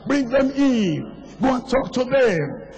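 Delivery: high, insistent preacher's call, phrase by phrase; urgent exhortation. Real, not acted. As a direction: drive each short command home from the pulpit.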